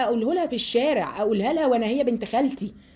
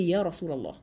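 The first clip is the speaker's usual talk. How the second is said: softer, hushed respectful address; respectful lowered voice; 6 semitones lower, 5 dB quieter than usual. Shown as a demonstration. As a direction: call him gently and softly. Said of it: "وبصوت منخفض".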